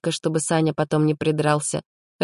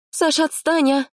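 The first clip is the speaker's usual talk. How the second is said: angry; 12 semitones higher than usual. Acted. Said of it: "гневно скинула она шапку".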